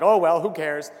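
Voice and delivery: offhand mock shrug at missing a talk; flippant. Speaker mimicking a flippant self, a breezy "who cares". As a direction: toss it off like it doesn't matter. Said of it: "not that I'm being flippant".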